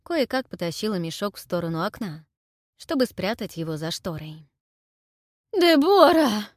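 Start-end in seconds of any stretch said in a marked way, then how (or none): 5.5-6.4 high, loud desperate roar. A narrator's reading. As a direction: bellow her name. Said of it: "донёсся рёв Анхеля".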